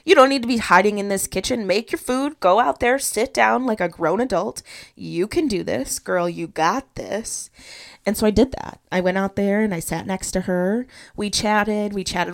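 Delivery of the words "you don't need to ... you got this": louder, pushy pep talk to herself, easing off at the end; rally yourself like a coach giving orders; self pep talk. Retold or imitated. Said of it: "gave myself a little pep talk".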